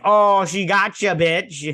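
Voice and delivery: high, loud and slow, savouring it; gleeful cheer. Retold or imitated. Fan cheering Amelia's burn on She-Hulk, gleeful and loud. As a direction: crow it like a fan at the screen.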